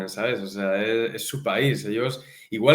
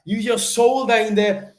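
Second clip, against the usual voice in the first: high, slow, overdone Irish coaching voice; exaggerated Irish accent; 9 semitones higher, 5 dB louder, slower than usual. Jiu-jitsu coach instructing students in an exaggerated high Irish accent. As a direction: play a thick-accented coach drilling technique. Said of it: "pero súper exagerado".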